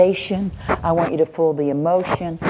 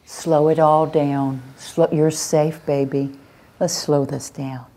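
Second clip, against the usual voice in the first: slow soothing. Shown as a demonstration. Calming child demo.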